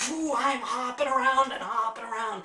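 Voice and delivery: loud, laughing and thrilled; exhilarated laughing rush; laughing excitement. Retold or imitated. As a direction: bubble over with giddy joy. Energized, hopping around laughing.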